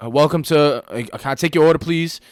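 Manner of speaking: high, loud, strained order-taking; upset cashier. Retold or imitated. Upset cashier greeting a customer, high and strained. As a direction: imitate a visibly upset server greeting a customer. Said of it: "Like, upset, you know what I'm saying?".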